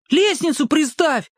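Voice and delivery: Petka calling down for the ladder; mild call out. A narrator's reading. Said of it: "крикнул ему Петька". (мальчишеский оклик вполсилы)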